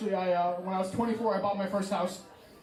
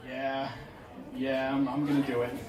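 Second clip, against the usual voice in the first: much lower, drawn-down mock resolve; low-pitched inner plotter; low scheming voice; 8 semitones lower than usual. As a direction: drop right down, as if plotting a prank. Voicing sly decision to prank mom.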